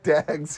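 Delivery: "dags," with a short a, rhyming with bags; accented "dags". Retold or imitated. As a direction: mimic the film's accent on "dags,". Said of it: "repeated back to him in that accent".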